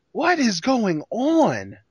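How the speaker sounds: drawn-out, mock-bewildered question; baffled disbelief. Real, not acted. Host puzzled by random fog in vignette, baffled. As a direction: stretch every word in bafflement.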